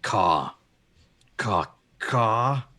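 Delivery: loud, punchy bird caws; big bold raven squawk. Acted. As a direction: caw at the birds to scare them off. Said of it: "turns to the birds and goes".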